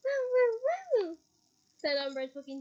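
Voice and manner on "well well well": high, slow, loud gloating; triumphant gloat. A narrator's reading. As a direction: savour the win. Umbridge triumphant.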